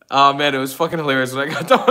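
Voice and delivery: laughing through the words; giggling while telling the joke. Real, not acted. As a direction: chuckle as you recall it.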